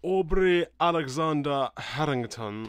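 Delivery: slow, grand posh announcement; posh announcer. Shown as a demonstration. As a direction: announce it like a butler at a ball. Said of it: "kinda needs a posher sort of announcement".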